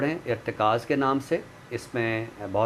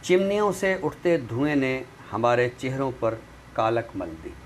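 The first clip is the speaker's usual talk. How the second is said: poem recitation. Acted. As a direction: recite each image with weight and pauses. Recites a nazm on the show.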